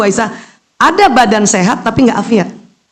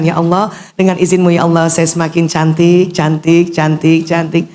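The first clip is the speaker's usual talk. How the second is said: prayerful affirmation; 4 semitones lower than usual. Shown as a demonstration. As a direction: pray it gently in front of the mirror. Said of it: "Boleh tambahkan".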